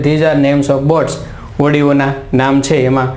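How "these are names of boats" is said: teacher reads the answer slowly for students to note; slow dictation. Shown as a demonstration. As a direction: read each word out slowly and clearly. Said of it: "જવાબ આવે છે".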